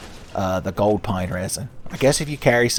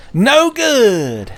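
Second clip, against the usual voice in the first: much higher, loud wailing "No good!"; shrill Sonic yell; 13 semitones higher, 5 dB louder than usual. Retold or imitated. Sonic at Tails' bedside, high loud "No good!". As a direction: belt out "No good!" like a cartoon hero in despair. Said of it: "Sonic lecturing Tails".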